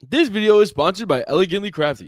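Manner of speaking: mock sponsor read. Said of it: "imagine we did".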